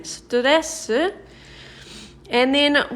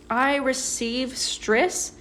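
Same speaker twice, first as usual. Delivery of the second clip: slow, careful literal translation; slow literal gloss; slower than usual. Shown as a demonstration. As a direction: spell out the literal meaning slowly. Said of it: "Or, more naturally in English".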